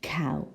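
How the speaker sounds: "cow" with an OW vowel, not OH; different vowel. Shown as a demonstration. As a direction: say "cow" clearly, rhyming with now. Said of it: "Can you hear the difference?".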